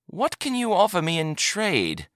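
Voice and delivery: high, inviting question; haggling trader. A narrator's reading. Trader asking buyer for an offer, high haggling tone. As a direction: pitch it up high, fishing for an offer.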